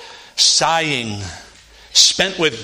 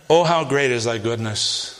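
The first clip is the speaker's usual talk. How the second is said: softly savoring the verse; 4 semitones lower than usual. Shown as a demonstration. Preacher re-reading his underlined verse, softly savoring it. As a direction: lower and quieter, lingering on each word. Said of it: "I underline that verse".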